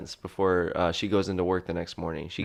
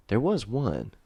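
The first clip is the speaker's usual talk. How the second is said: put-on thick Southern accent. Prisoner to detective, sudden thick Southern accent. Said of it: "you just got an accent really thick".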